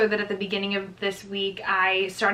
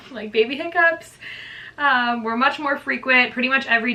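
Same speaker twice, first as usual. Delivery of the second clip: gushing excitement; 4 semitones higher than usual. Real, not acted. Vlogger gushing to viewers about baby hiccups, excited and higher. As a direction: gush about it like it's the best thing ever. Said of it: "You can tell I love them".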